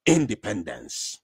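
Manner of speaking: a light imitation of a measured presidential address; imitating the Finnish president. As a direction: deliver it slowly like a head of state. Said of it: "So he said".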